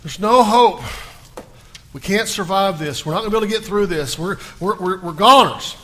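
loud, desperate wailing of a man in despair; panicking. Retold or imitated. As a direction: cry out like all hope is gone. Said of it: "he just went to pieces".

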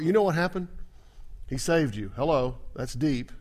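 ordinary talk

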